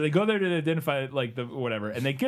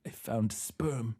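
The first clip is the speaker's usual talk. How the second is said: mad coroner voice; 4 dB quieter, much slower than usual. Retold or imitated. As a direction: drawl it like a mad scientist. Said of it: "he has this incredible line".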